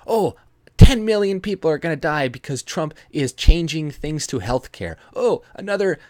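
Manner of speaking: high, loud hammed-up panic; mock alarmist. Vlogger mimicking liberal doom-sayers, in a loud hammed-up panic. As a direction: wail the doom predictions in mockery. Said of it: "people saying, like".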